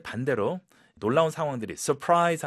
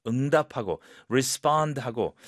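ordinary delivery

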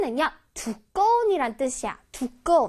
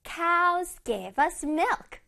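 word by word, very slow; slow, spaced-out English with pauses between words; slow model reading; 3 semitones higher, much slower than usual. Shown as a demonstration. Teacher reading a sentence for children to repeat, very slowly.

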